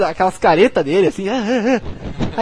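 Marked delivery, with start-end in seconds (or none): 1.3-2.4 mock grimace noises. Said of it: "começa a fazer aquelas caras".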